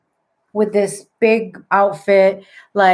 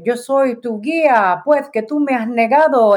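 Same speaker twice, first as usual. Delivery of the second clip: dramatic Spaniard; 3 semitones higher than usual. Retold or imitated. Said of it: "he's, like, really dramatic".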